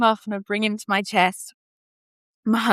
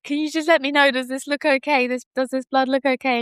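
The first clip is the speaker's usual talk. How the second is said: anxious question; 7 semitones higher than usual. Retold or imitated. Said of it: "so I'm like".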